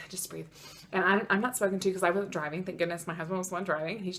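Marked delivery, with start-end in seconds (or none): 0.1-0.5 softer, nearly under the breath; hushed self-calming. Retold or imitated. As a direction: talk yourself down, very soft. Calming herself, even softer.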